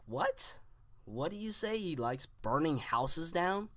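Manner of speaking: high, incredulous question; can't believe what you just heard; baffled. Retold or imitated. Baffled reaction to odd remark.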